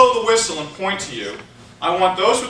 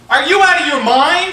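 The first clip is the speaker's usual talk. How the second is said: louder, higher outraged yell; yelled demo; 7 semitones higher, 8 dB louder than usual. Shown as a demonstration. Speaker shows volunteer the line to yell, outraged shout. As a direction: shout it in disbelief. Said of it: "I need for you to yell out".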